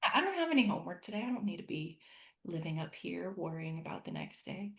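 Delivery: a self-reminder that starts bright and fast, then drops soft; loving self-reminder. Retold or imitated. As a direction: gently remind yourself you're off duty. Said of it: "lovingly remind myself".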